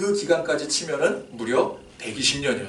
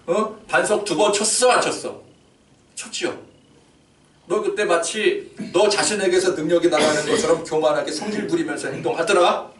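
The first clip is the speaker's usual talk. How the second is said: higher and louder, reproachful; scolding God; 4 semitones higher, 3 dB louder than usual. Acted. God cross-examining Moses about striking the rock, louder and reproachful. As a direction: demand an answer from Moses.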